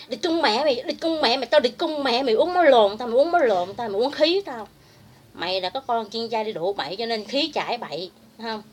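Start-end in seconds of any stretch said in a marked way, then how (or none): 0.1-4.7 lightly mocking, louder quoted rant; mocking imitation. Speaker throwing a rival's curses back at her, mocking imitation. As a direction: parrot the rival's cursing with more push. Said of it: "Mày mở miệng ra".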